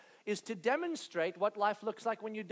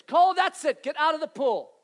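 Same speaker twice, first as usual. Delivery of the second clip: loud, higher stern order; fed-up order; 6 semitones higher, 10 dB louder than usual. Retold or imitated. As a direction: lay down the final warning. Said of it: "I hear these words".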